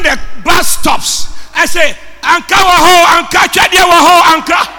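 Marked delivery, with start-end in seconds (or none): 2.2-4.7 lightly acted hawker's cry; imitated street vendor's call. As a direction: call out wares to bus passengers. Imitates orange seller calling at buses.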